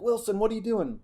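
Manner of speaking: a high shouted coach's question; coach yelling. Retold or imitated. Coach calls out the quarterback in the huddle, high yell. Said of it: "We yell".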